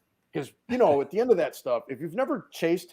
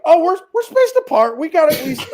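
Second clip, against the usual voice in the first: high, louder guilty squeak; sheepish excuse; 9 dB louder than usual. Retold or imitated. Husband caught out by his wife, high sheepish excuse.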